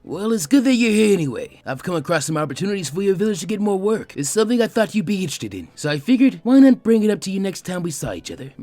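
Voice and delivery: a scared man covering with bluster; nervous loud businessman. Acted. Gato pitching a deal.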